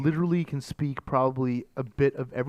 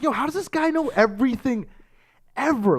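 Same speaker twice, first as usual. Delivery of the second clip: high-pitched mock disbelief, louder at the end; exaggerated amazement; 11 semitones higher, 4 dB louder than usual. Host marvelling at his friend's many languages, hammed-up amazement.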